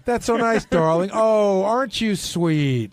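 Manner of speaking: slow, sugary mock-sweet imitation of a friend; hammed-up syrupy thanks, drawn out slow; Sal's sweet voice. Cohost mocking Sal's serious talk voice, sugary and slow. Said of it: "he's doing that voice that he does, serious talk voice".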